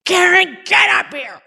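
dad shouting over the storm, high and loud; father calling his daughter to help with the anchor; urgent call. Retold or imitated. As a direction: bark an order up to the deck.

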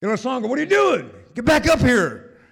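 loud, high, fast shouted call; frantic high shout. Retold or imitated. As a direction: yell up at him from the water. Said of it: "like, you know".

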